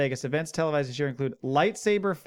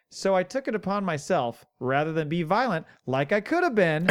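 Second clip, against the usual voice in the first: quoting the man; 2 semitones higher than usual. Retold or imitated.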